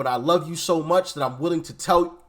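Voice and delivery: talking through hiccups. Real, not acted. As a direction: speak while hiccuping. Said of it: "excuse me, I got the hiccups".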